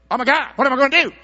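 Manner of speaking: mock helpless protest. Acting out a self-excusing man.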